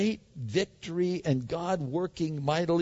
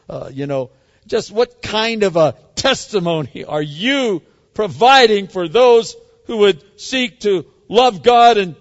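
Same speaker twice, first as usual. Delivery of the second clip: harsh, scornful rebuke building to a loud rant; mock scolding; 7 dB louder than usual. Preacher mocking a tired prophet with a loud scolding rant. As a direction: berate him like a fed-up drill sergeant. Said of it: "My Bible doesn't say that".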